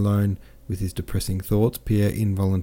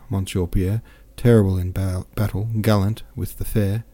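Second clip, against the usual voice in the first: smiling gallantry; 3 dB louder than usual. Acted. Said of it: "he added, smiling".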